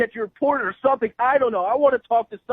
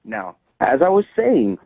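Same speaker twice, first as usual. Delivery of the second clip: pointed, slow; 8 semitones lower, 5 dB louder, slower than usual. Real, not acted. Frustrated customer restarting his complaint.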